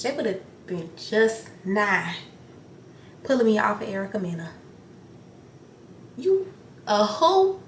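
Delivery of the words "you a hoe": high, loud and slow, daring her; pretend confrontation. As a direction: drag out the challenge like a street fight. Acting out confronting Erica.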